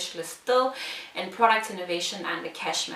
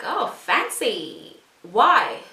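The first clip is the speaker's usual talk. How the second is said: slow, drawn-out impressed reaction with a punched question; imitating impressed interviewers; 2 semitones higher, 6 dB louder, much slower than usual. Interviewers reacting to her answer, mock-impressed. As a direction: stretch it out, then pop the question. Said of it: "So they're like".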